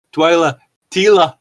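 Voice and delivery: hammed-up eerie calling; mock scream. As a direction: call the name out like a spooky voice. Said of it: "said the voice screamingly".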